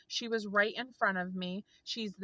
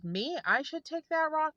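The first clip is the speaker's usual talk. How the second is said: higher-pitched, incredulous question; retold disbelief; 8 semitones higher than usual. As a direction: imitate her astonishment at being offered it. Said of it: "this woman was just like, couldn't believe".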